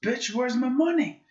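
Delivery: high-pitched imitation of a whiny demand; Jesse Pinkman. Teaching Bradley to say bitch, high-pitched character imitation. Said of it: "Jesse Pinkman".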